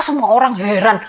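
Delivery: usual speaking voice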